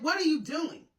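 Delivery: put-on high-pitched child's question; imitated child's challenge. Five-year-old to the boys at the door, high imitated challenge. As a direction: imitate a little girl calling out a question. Daughter confronting boys, retold.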